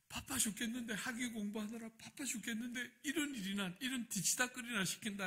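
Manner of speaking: high-pitched indignant muttered complaint; huffy grumbling. Retold or imitated. Pastor retelling his annoyance at insurance errands, huffing. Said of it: "막 씩씩대면서 딱 갔는데".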